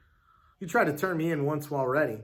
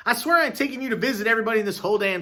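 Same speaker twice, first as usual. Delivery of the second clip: grumbling; 6 semitones higher, 4 dB louder than usual. Acted. Hal grumbling after giving in.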